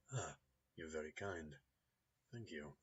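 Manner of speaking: put-on the mechanic's polite warning in a light Russian accent. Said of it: "hint of a Russian accent".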